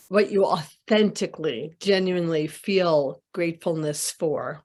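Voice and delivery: unhurried guiding voice with long pauses; guided meditation. Real, not acted. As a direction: lead a group into gratitude, leaving space between phrases. Leads a gratitude meditation.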